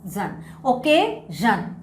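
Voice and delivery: "जन" said slowly with a voiced z/zh sound; slow teacher's demo of "जन", not "शन"; demonstrated pronunciation. Shown as a demonstration. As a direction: stretch out the ending "जन" in "ओकेजन". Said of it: "यहाँ पे शन नहीं है".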